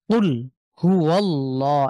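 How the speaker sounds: কুল হুয়াল্লাহ slowly, recited, with a heavy l; Quranic recitation. Shown as a demonstration. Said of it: "এখানে আল্লাহ শব্দটি রয়েছে".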